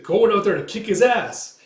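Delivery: loud, high, fighting declaration; fired-up retort. Retold or imitated. Coin going out to fight the pirate, fired-up retort. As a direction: act out storming off to fight.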